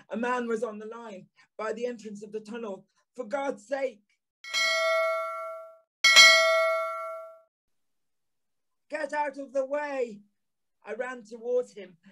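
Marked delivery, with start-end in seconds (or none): 3.2-10.2 a touch higher, urgent plea without real volume; desperate cry. Acted. Narrator urging the man off the track, mild urgent cry. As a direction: call out urgently, understated.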